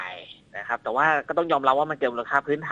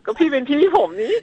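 mock cajoling whine, pitched much higher; playful whining; 8 semitones higher than usual. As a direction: whine sweetly like a little brother to his big brother. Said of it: "เขาบอกอ้อน อ้อน".

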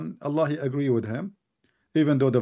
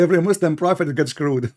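laughing; 4 semitones higher, 7 dB louder than usual. Real, not acted. Mocking his debate opponent, laughing loudly. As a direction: laugh through a loud jab.

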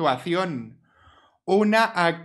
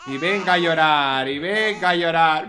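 louder fed-up grumble; exasperated complaint; 5 dB louder than usual. Real, not acted. Player fed up with the crying baby, louder.

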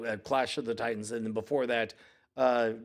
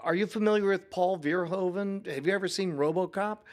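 eager dad pitch; 5 semitones higher than usual. Retold or imitated. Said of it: "And I was like".

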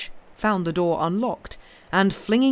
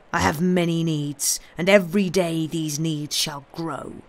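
menacing; 4 dB louder than usual. Acted. Avenger states his demands.

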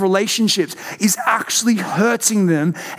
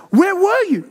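angry mum; 11 semitones higher than usual. Retold or imitated. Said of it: "She's like".

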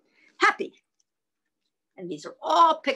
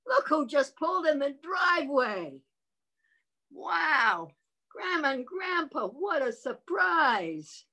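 surprised; 5 semitones higher than usual. Shown as a demonstration.

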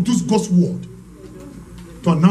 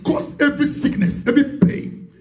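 healing prayer command; 5 semitones higher than usual. Real, not acted.

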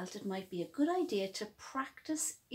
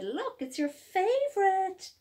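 higher cheerful coaxing mum; mummy coaxing; 8 semitones higher, 4 dB louder than usual. Acted. Mummy offering chocolate cake in the bath. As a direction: tempt him sweetly, a light mum voice. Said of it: "and she said".

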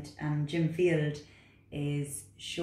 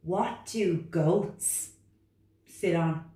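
reluctant frog; 3 semitones higher, 4 dB louder, much slower than usual. Acted. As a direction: whine back like a stubborn little frog. Frog character.

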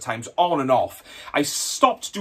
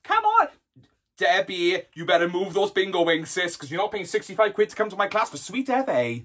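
lightly voiced eighties aerobics coach; cheesy fitness instructor; 3 semitones higher than usual. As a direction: open on a high yelp, then chivvy the class. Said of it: "fitness instructors".

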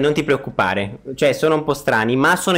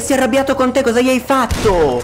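high character voice; 8 semitones higher than usual. Acted. Plays a character to the friend.

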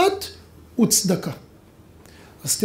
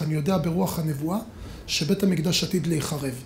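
solemn prophecy; 5 semitones lower, 7 dB quieter than usual. Retold or imitated. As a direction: lower and softer, grave. Solomon reveals his prophecy.

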